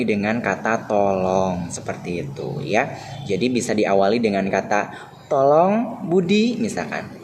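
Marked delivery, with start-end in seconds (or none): 5.3-6.6 polite request. Shown as a demonstration. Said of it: "nada atau intonasi ucapan yang sopan".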